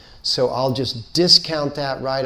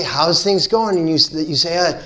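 mock frantic; 3 semitones higher than usual. Mocking frantic busy person.

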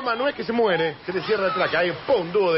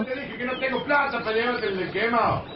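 nagging parent; 4 semitones higher than usual. Acted. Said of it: "No entiendo por qué seguís gritando".

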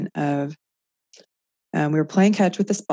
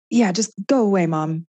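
higher, mildly huffy imitation of a child; 4 semitones higher, 3 dB louder than usual. Annoyed son on the bed to his mom, mock huffy. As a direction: lightly act an irritated kid brushing off a parent.

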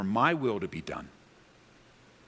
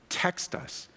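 whisper; 7 semitones higher, 3 dB quieter than usual. Real, not acted. Urging viewers to text line.

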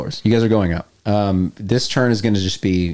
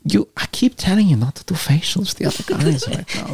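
German radio caller; 4 semitones higher than usual. Acted. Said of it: "I can speak in normal German".

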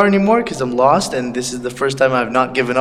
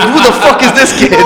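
higher, louder, fast and laughing; mock trailer voice; 8 semitones higher, 6 dB louder, faster than usual. Laughing co-host mocks a movie trailer, hammed-up. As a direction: ham up a trailer line. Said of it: "the fucking movie thing".

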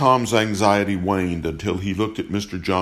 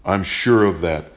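firm, louder and bold; 5 dB louder than usual. Acted. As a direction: stand your ground out loud. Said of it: "Father Tom spoke boldly".

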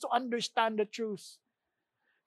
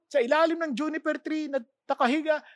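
normal talking voice

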